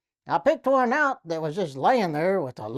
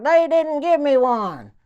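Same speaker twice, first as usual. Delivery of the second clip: slow, loud and higher call; yelling back; 6 semitones higher, 6 dB louder than usual. Retold or imitated. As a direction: shout the answer down from above. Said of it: "He yelled back".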